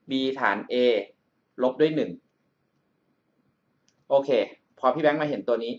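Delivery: ordinary delivery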